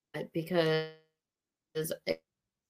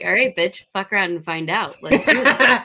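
sassy challenge; 5 dB louder than usual. Retold or imitated. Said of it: "Then I was like".

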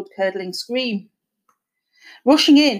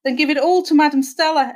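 higher-pitched urgent demand; exclaiming; 6 semitones higher, 4 dB louder than usual. A narrator's reading. Wife urges husband to pay the medium, exclaiming. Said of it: "exclaimed Myrtle".

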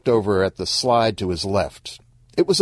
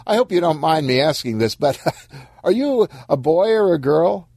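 hesitant, higher-pitched polite question; lightly voiced awkward man; 9 semitones higher than usual. Stan asks Corpse a delicate question, lightly awkward. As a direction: tiptoe into it, pitched up, a little awkward.

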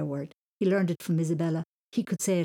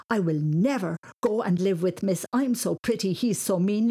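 mocking taunt; 2 semitones higher, 4 dB louder than usual. Mocking rhyme about cousin.

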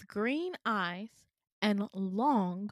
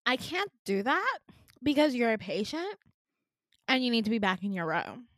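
mock officious front-desk voice; dismissive receptionist; 3 dB louder than usual. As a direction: lay down the rule to a nuisance. Receptionist refusing the patient, acted out.

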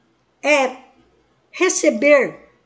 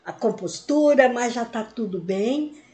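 calm apology; 4 semitones lower, 4 dB quieter than usual. Shown as a demonstration. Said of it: "falando com outra pessoa".

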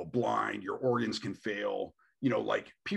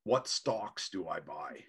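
slow, drawn-out question, pitched a bit down; lightly voiced convert sizing up profit; mock eager investor; 4 semitones lower, slower than usual. Imitating conservatives now eyeing weed money, slow mock interest. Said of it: "now they're like".

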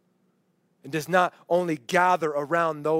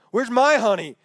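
mock-indignant bridesmaid, raised pitch; indignant complaint; 3 semitones higher, 4 dB louder than usual. Single bridesmaid complains at everybody's wedding, indignant. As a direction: demand it like a put-out single friend.

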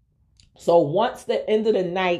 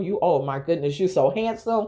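light teasing echo of his compliment; playful mock flattery. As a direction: mimic him to poke fun. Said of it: "kinda, like, mocking him".

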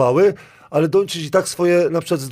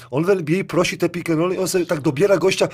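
breaking into real laughter, voice rising; laughing while talking; 4 semitones higher than usual. Real, not acted. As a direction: let the laugh spill through the words. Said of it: "sorry, że się zaśmiałem". (ze śmiechem, głos się podnosi)

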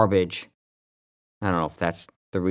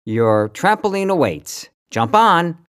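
Satan voice; 8 semitones higher, 4 dB louder, slower than usual. Pretend. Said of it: "Satan should say".

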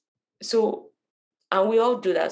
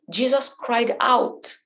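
slow, higher, stretched-out reading; drawn-out emphasis; 5 semitones higher, much slower than usual. Shown as a demonstration. Teacher reading the verse to listeners, drawn-out emphasis. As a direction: read it slowly, lifting the pitch on cried out. Quoting verse, then laughs.

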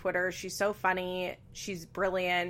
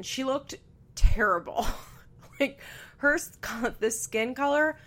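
breathy half-laughing whisper of disgust; aghast stage whisper; horrified whisper; 5 semitones higher, 3 dB louder than usual. Acted. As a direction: whisper it like it's too awful to say aloud. Mock horror at green skin.

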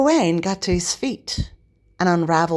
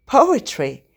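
high, startled question; surprised; 7 semitones higher, 4 dB louder than usual. A narrator's reading. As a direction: blurt it out in disbelief. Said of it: "asked Leon with surprise".

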